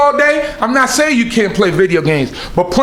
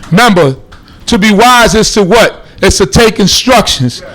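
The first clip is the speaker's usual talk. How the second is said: louder, weighty warning from the preacher; emphatic preaching; 4 dB louder than usual. Real, not acted. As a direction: press each point home loudly.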